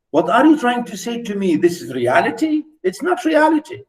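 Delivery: mock protest to author. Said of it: "But we say".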